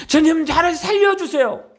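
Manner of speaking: a hint of a desperate woman begging; mock pleading cry. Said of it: "라고 부르짖었어요?".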